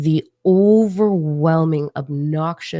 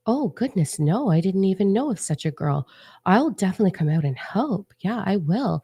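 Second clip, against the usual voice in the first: higher-pitched, lightly voiced frail lady act; 4 semitones higher than usual. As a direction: play an innocent, helpful frail lady. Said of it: "morphed back into this frail lady".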